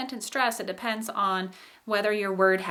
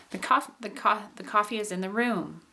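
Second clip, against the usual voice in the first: rise-fall squeezed onto "room"; last stress on ROOM. Shown as a demonstration. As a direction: stress the final "room" and let it drop. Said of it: "so that was the last stress".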